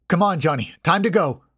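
calling out loud. A narrator's reading. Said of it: "I said out loud".

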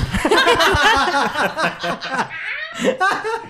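long, high-pitched burst of laughter; real uncontrolled laughing fit; big laugh. Real, not acted. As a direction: crack up helplessly at an absurd line. Cracks up at absurd pickup line.

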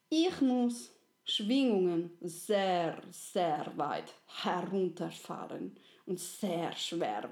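slow, earnest kind spirit; a gentle soul confessing a heavy task, slowly; friendly soul. Acted. Friendly soul asks little soul a favour, slow and earnest.

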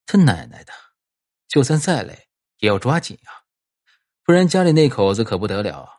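low muttered grumble to himself; a worried husband cursing under his breath; grumbling farmer. Acted. Du Bin grumbles to himself at work.

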